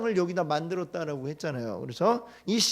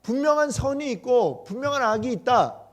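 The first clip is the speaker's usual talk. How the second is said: firm declaration; 6 semitones higher than usual. Retold or imitated. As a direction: declare it boldly against mockers. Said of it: "이렇게 얘기하면".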